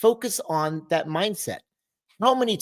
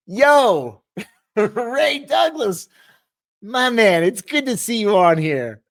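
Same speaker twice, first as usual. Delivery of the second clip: much higher, slow shout of his name with a laugh; excited greeting; 7 semitones higher, 5 dB louder, much slower than usual. Real, not acted. Host spotting a friend in the chat, thrilled shout. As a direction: call his name out, thrilled to see him.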